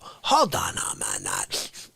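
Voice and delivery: slow, low menacing mob boss; mobster voice. Acted. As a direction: lean back and growl it like a godfather. Mobster-style comic monologue opening.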